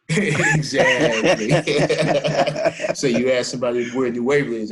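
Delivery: cracking up while talking; laughing. Real, not acted. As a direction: laugh your way through it. Laughing at the Willis joke.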